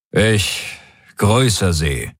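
curt, dry and unbowed; dry greeting. A narrator's reading. Warlord greets the alien probe dryly. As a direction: greet the alien coolly, no warmth. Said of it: "sagte Daraios trocken".

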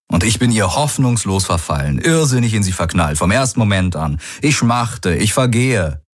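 mildly hammed-up declaration of love; a touch of mock-romantic pining; lovestruck man, teasing. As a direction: swoon in jest, lightly overdone.

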